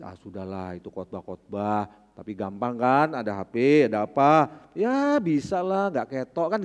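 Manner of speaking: low, casual tempting voice; a hint of the devil's coaxing; lightly voiced tempter. (godaan iblis yang santai dan rendah)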